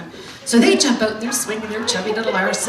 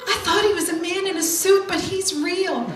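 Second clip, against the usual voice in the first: put-on child voice; 6 semitones higher than usual. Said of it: "my youngest actually says".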